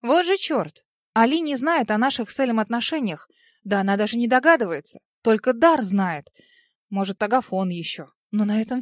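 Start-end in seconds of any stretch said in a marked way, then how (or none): none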